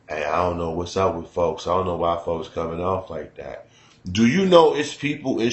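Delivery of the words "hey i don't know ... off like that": put-on older Chicago voice. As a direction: talk like an old head from Chicago's streets. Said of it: "vibe of every older nigga from Chicago".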